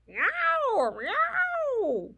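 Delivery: loud, very high drawn-out yowls; tomcat yowl. Acted. Reader plays the tiger tomcat, loud high yowling meows. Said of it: "And a tiger tomcat".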